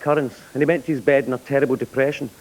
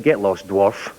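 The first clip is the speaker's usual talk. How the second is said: dismissive; 8 semitones lower, much slower than usual. Acted. Rich writer dismisses elf.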